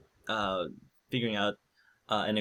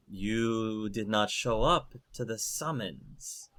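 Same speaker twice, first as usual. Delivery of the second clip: lightly voiced earthy golem; a hint of an earthy creature. Golems confronting Dagna over the summons, mildly earthy voice. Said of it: "in a very earthy voice".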